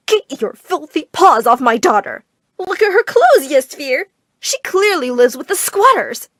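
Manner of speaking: loud, high, slow outraged screech; screeching mother. Acted. Mother screeching at her daughter's friend, loud and outraged. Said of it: "she let out a screech".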